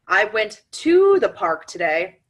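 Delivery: slow, "to" pressed hard; stress on TO. Shown as a demonstration. Demonstrating emphasis to listeners, slow stress on "to". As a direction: lean on "to" only, slowly. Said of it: "depending on what you emphasize".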